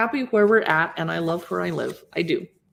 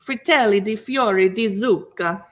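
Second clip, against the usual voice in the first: Italian accent; 4 dB louder than usual. Shown as a demonstration. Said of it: "How's my Italian accent?".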